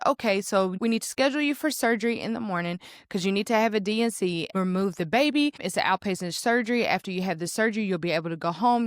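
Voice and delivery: rattled off fast; all in one breath. Retold or imitated. Doctor rushing the patient through surgery plans, fast and flat. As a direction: run it together like a checklist. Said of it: "literally all in the same breath".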